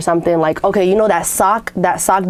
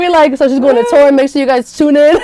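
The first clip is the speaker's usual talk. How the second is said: mock announcer; 7 semitones higher, 6 dB louder than usual.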